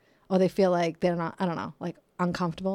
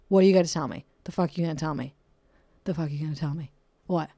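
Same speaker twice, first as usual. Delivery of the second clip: defensive; 3 semitones lower, faster than usual. Pretend. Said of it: "I'm always on the defense".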